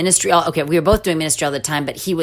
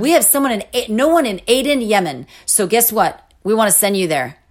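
higher, swooping mock-recruiter pitch; gung-ho recruiter; 5 semitones higher than usual. Mission organization sending couple to Yemen, mock gung-ho pitch. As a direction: imitate an over-eager organization selling the posting.

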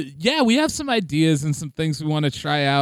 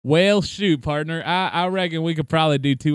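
cowboy drawl. Pretend. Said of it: "two different accents".

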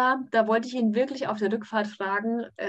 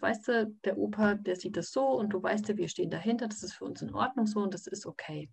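put-on softer, calm words to a little boy; hushed reassurance; 5 dB quieter than usual. Mother soothing her son after grandpa's insult, softly. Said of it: "Da brauchst du gar nicht so hinzuflüstern".

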